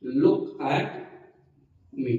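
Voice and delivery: teacher repeating slowly; slow dictation. Shown as a demonstration. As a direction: pause before the last word. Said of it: "क्या बोलना है?".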